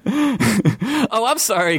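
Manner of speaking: high-pitched, lightly acted exclamation; exclaimed apology. A narrator's reading. Skeleton apologises to devoured adventurer, exclaiming. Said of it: "Gary exclaimed".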